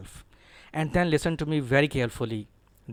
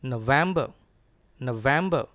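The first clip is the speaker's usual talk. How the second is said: November with a strong falling VEM; stresses on NO, VEM; 4 dB louder than usual. Shown as a demonstration. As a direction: lean on NO and harder on VEM in November. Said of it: "Stress is on N and then V E M".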